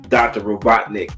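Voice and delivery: ordinary talk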